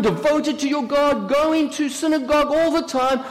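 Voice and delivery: high-pitched outraged tirade; losing it. Acted. Sister turning on Mary over the pregnancy, losing it. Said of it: "I just lost it".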